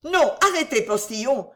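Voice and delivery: high, loud, alarmed call; frightened cry. A narrator's reading. Cécile stopping the postilion from driving off, frightened. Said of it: "s'écria Cécile effrayée".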